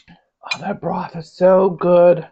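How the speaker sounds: slow breathy whisper of delight; savoring whisper. Real, not acted. Cook tasting her broth, whispering slowly in delight. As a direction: breathe it out slowly, lost in the taste.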